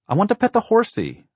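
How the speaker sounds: put-on very high, loud small child's voice; eager little boy. A narrator's reading. Little Blake begs to pet the horsey, high and eager.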